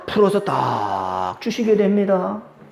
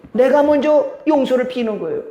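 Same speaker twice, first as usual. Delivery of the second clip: ordinary talk, nothing marked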